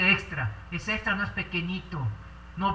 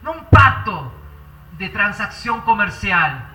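earnest pastor's prayer, swelling and fading; fervent prayer; 6 dB louder than usual. Acted. Pastor praying aloud for the congregation, fervent and earnest. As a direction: pour out the prayer to the Father.

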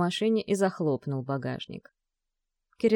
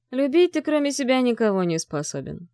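cutting retort; 6 semitones higher than usual. A narrator's reading. Father cuts his son off, coldly dismissive. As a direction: slam the door on the argument. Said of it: "отрезал отец".

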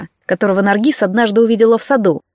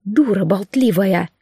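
quiet scorn; 4 semitones lower, 3 dB quieter, slower than usual. Acted. Mirna scolding the girl.

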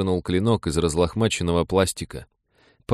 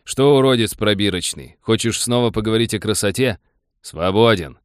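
mocking officer; 3 semitones higher, 5 dB louder than usual.

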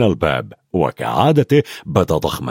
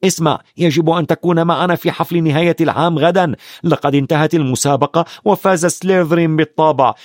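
proudly; 5 semitones higher than usual. Acted. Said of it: "قال رون بفخر".

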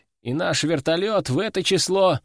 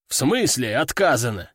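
growled; 3 semitones lower than usual. Acted. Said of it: "рыкнул ветеран".

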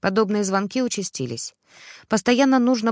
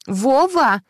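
loud call, higher; shouting; 5 semitones higher, 6 dB louder than usual. A narrator's reading. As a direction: yell his name down the phone. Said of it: "кричала Ксюша в трубку так громко". (громко кричит в трубку)

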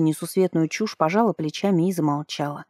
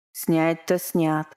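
thoughtful; 3 dB quieter, much slower than usual. Acted. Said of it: "задумчиво хмыкнул собеседник".

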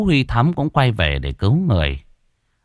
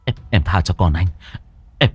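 panicked pleading; faster than usual. Acted. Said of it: "cũng cuống cuồng".

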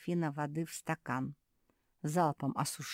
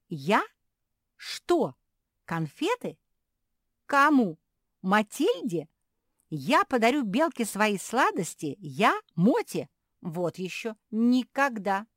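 higher, louder sputtering; outraged questions; 7 semitones higher, 9 dB louder, slower than usual. Acted. Kuki refusing to give sweets, outraged.

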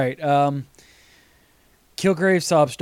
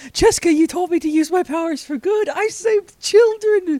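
whiny character voice; 13 semitones higher, 4 dB louder than usual. Retold or imitated. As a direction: whine it like a proud fool. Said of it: "like in episode nine".

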